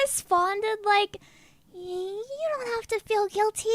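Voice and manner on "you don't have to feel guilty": soft, gentle mock-tender reply; lightly acted reassurance, hushed; retold reassurance. Teller replays replying to a guilty friend, soft reassurance.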